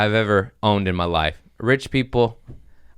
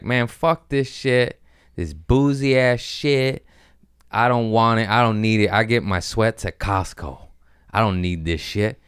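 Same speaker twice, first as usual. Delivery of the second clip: bad attitude; 2 semitones higher than usual. Walking into the store with a bad attitude, mildly scornful. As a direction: grumble it off like a sneer. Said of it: "being like".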